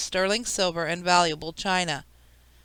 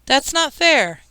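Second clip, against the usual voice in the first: put-on higher, louder child's protest; indignant shout; 7 semitones higher, 5 dB louder, slower than usual. A narrator's reading. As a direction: shout it like a kid who feels cheated. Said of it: "Kevin shouted".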